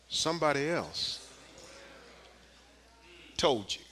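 soft, slow, drawn-out; quiet slow close. Acted. Preacher easing the congregation down, soft and slow. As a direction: let each word land in the hush.

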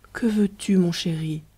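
resigned tender whisper to her sad husband; gentle consoling. Acted. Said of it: "avec une gentille philosophie".

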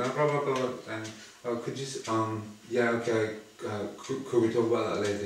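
hammed-up dithering politeness; mock airs and graces. Mocking people who dodge with polite excuses. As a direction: mimic someone making fussy excuses. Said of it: "airs and graces".

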